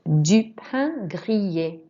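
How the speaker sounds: "grillé" with double L as Y and final E as A; Y sound in grillé. Shown as a demonstration. Teacher models toast in French, slow Y sound in "grillé". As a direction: slowly model "grillé" as gree-yay. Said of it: "double L makes a Y sound".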